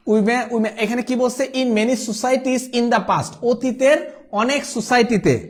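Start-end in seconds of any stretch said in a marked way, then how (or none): 1.4-3.3 slow rereading. Shown as a demonstration. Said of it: "slow rereading".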